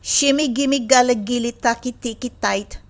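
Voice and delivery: playful gibberish in a put-on voice; nonsense answer. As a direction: chant nonsense to baffle her. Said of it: "I say".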